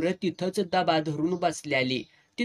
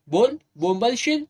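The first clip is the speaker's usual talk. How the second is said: angry threat; 7 semitones higher, 5 dB louder than usual. Acted. Shali threatens crying boy.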